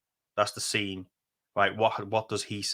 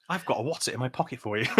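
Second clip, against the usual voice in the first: laughing mock villain; faster than usual. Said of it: "Insert acting".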